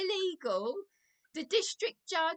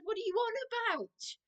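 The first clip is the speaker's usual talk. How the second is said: raised, heated reenactment of shouting at the manager; indignant mock shout, higher pitched; retold yelling; 9 semitones higher, 4 dB louder than usual. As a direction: replay the angry yell, higher and louder. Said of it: "I started yelling down the phone".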